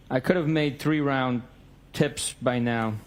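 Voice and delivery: slow, careful reading with "tips" misread; slow halting misread. Shown as a demonstration. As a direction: read "three round tips" haltingly and slowly. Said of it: "Excuse me, I apologize".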